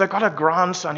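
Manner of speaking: lightly attempted Scottish accent; poor Scottish accent. Preacher imitates an older Scotsman talking about his grandson, poor Scottish accent. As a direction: have a modest go at a Scottish accent. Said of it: "my Scottish accent is not good".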